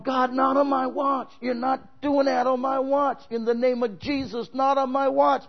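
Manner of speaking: loud, high, slow and forceful; preacher shouting a prayer over the house; retold prayer. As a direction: declare it like a warrior in prayer. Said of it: "And I'm going".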